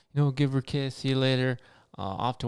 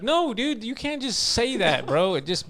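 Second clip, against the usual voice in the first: retold indignant protest; 6 semitones higher than usual. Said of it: "I was like".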